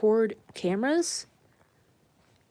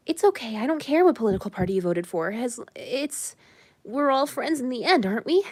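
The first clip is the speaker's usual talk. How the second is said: higher-pitched mock reassuring voice; mock conciliatory supporter; 4 semitones higher than usual. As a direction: lightly imitate someone smoothing over politics. Voicing people who would be like.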